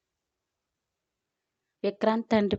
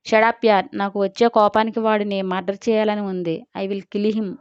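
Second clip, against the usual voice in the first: angry. Acted. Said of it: "అంది కందిన మొహంతో".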